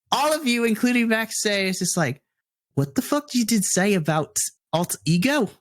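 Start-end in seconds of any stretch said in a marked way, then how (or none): 2.7-5.5 loosely attempted, vaguely Irish-sounding accent; butchered accent. Goth woman confronting the table about Alt Ego, in a butchered accent. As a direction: try an accent and butcher it a bit. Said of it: "this accent is gonna be butchered".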